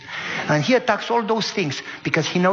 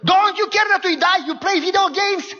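indignant outburst; 12 semitones higher than usual. Retold or imitated. Mister Ralph scolding the kids for playing games, exasperated. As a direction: demand it in disbelief. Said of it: "Mister Ralph turns and says".

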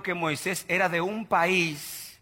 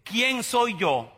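very slow, shrinking question; meek Moses; much slower than usual. Retold or imitated. Moses doubting himself before God, very slow and small. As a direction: ask it as if he were nobody. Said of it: "Y ahora dice".

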